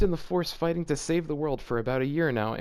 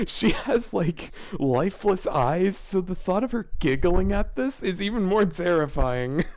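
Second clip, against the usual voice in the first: laughing while talking; 4 semitones higher than usual. Real, not acted.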